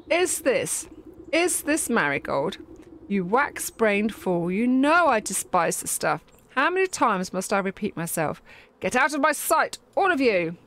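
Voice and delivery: a hammed-up furious queen; angry queen bee. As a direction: throw them out in a haughty fit. Queen rejects flowers.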